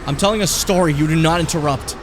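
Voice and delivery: stern scolding. Pretend. Scolding viewers not to interrupt.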